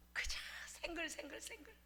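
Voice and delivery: put-on soft whisper of a content baby. 배부른 아기가 생글거리는 모습을 속삭이며. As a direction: breathe it out as a hush.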